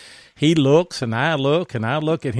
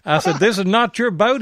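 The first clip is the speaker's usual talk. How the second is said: shocked; 7 semitones higher, 5 dB louder than usual. Retold or imitated. Shocked retelling, laughing.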